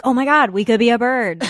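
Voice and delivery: retold excitement. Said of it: "I was like".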